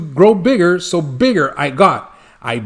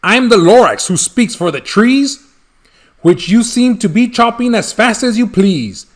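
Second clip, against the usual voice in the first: snappy Lorax voice; 2 semitones higher than usual. Acted. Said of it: "He snapped".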